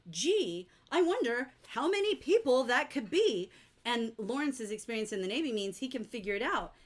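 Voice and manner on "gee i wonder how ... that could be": exaggerated sing-song musing; wondering onlookers. Imagining everyone else standing around, wondering. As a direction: wonder aloud with big pitch swoops. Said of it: "standing around going".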